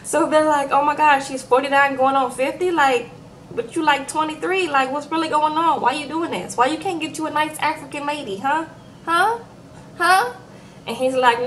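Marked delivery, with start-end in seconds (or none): 0.7-10.3 mock Nigerian accent, rising into higher, insistent huhs; imitating a Nigerian accent, incredulous. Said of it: "my Nigerian accent".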